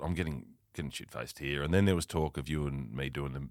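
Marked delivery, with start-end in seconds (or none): 0.0-1.6 low muttered inner voice; muttered thought. Retold or imitated. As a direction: mutter it to yourself.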